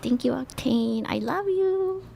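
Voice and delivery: put-on girl thanking a subscriber in a cute voice; cute gentle thanks. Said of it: "thank them in a really, kinda cute, gentle way".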